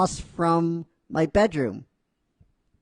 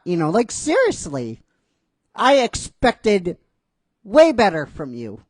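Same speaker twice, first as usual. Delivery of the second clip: mock scolding; 4 semitones higher, 4 dB louder than usual. Tsunade scolding in mock outrage.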